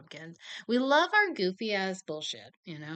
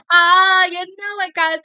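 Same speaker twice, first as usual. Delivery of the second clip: loud, higher show of bravado; fake confident; 11 semitones higher, 17 dB louder, slower than usual. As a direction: brag it off to hide the nerves. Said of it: "on the outside".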